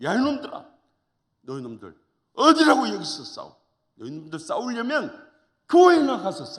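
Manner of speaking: put-on loud, high-pitched, angry old man's shout.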